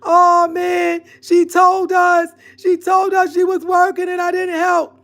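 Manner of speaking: high, loud mocking wail of regret; mock crying regret. Mocking the tribe members who will cry in regret, in a high, loud wail. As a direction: ham up the tribe's tearful "I should have helped her". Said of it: "They're gonna be crying, saying".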